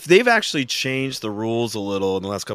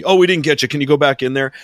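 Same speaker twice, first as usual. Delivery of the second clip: mock agent; 2 semitones higher, 7 dB louder, faster than usual. Imitating X-ray agent.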